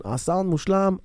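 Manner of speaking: a quick, light mock of a friend praising the sound; Adam impression. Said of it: "אה, עשיתי חיקוי".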